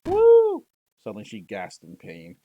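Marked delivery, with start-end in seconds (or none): 0.0-0.6 loud, high burst ending in a whooping cry; excited cheer. Real, not acted. Streamer cheering as the hero returns, thrilled. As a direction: celebrate out loud.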